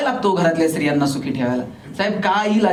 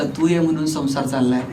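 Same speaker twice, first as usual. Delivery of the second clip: lightly acted film-hero line, lower and drawn out; a hint of romantic screen-idol dialogue; Rajesh Khanna; 4 semitones lower than usual. Husband sweet-talking his angry wife, lightly mimicked film star. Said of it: "Rajesh खन्नासारखं बघायचं आणि फक्त एक dialogue मारायचा".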